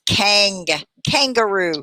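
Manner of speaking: "kangaroo" with a clear nasal ng before the g; ng demo. Shown as a demonstration. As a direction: model the ng in "kangaroo" slowly. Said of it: "reminds me of that word gang".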